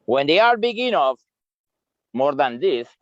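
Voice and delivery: talking while eating; words round a bite of berry; mouth full. Real, not acted. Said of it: "sorry, I'm eating".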